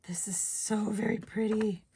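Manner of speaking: airy whispered praise; whispering. Real, not acted. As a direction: whisper it in awe. Whispered admiration.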